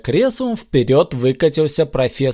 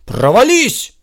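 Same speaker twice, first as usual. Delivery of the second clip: a sharper, louder demand, short and high; a touch more forceful command; 7 semitones higher, 4 dB louder than usual. A narrator's reading. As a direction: bark the spell word again, insisting. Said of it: "повторил ещё требовательнее".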